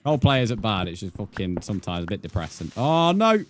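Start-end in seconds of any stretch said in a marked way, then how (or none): 2.8-3.4 startled. Real, not acted. Sudden mishap in game.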